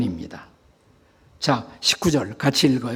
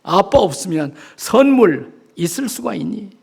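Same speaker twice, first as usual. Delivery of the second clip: louder mock scolding from a father; pretend shout; 3 semitones higher, 4 dB louder than usual. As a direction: act out the yell held back from your child. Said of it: "소리치고 싶었어요". (아이를 나무라듯 소리치는 흉내)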